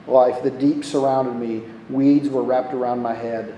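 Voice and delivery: low, even reading of a prayer; scripture reading. Acted. Reads Jonah's prayer aloud.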